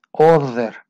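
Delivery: other with a vibrating th; voiced th. Shown as a demonstration. Teacher models voiced th in other. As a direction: buzz the th in other. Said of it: "tienes que vibrarla".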